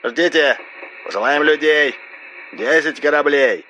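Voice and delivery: high, filtered distant voice in short bursts; broken phone fragments. A narrator's reading. RS promises ships over a bad line, shouted fragments. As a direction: call out fragments through crackle. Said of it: "едва слышные обрывки фраз".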